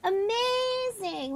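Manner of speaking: high, slow, amazed squeals; excited. Real, not acted. Painted Mario, thrilled.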